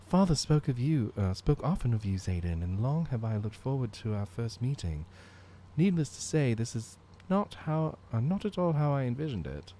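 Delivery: put-on earnest young noble voice. Voicing young noble lines.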